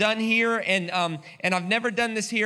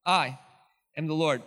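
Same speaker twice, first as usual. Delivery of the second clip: scripture reading. Acted. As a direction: read scripture with solemn pauses. Reads scripture aloud.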